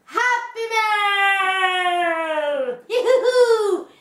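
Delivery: high, stretched excited yell; excited shout. Real, not acted. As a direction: shout it out with glee. Excited shout of Happy Mail.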